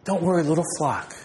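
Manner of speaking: gentle, personal reassurance; a hint of a caring shepherd speaking; tender reassurance. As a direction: comfort each sheep by name. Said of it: "But he says".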